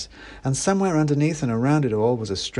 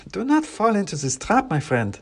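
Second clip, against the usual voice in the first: clacking wooden soldier; 10 semitones higher than usual. Acted. Klaus warns the narrator not to eat, clacking. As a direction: warn in a stiff wooden clack.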